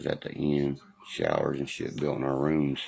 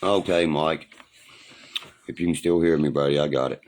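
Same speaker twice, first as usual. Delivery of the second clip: calling out to Mike; 6 dB louder than usual. Real, not acted. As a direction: raise the voice so a distant friend hears.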